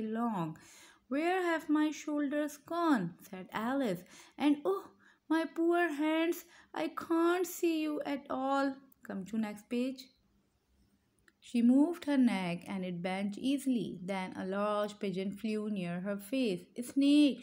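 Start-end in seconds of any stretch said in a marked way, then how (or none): 1.1-8.8 high, drawn-out storybook lament; dismayed lament. A narrator's reading. Alice looking for her shoulders and hands, dismayed. 16.9-17.4 loud, raised storybook shout; angry shout. A narrator's reading. Pigeon shouting at Alice, angrily. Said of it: "shouted the pigeon angrily".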